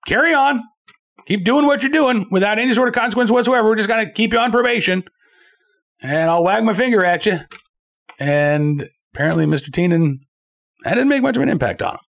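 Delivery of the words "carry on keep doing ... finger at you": high-pitched mock judge quote; mock lenient judge. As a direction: imitate an indulgent judge, pitched well up. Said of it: "The judge said".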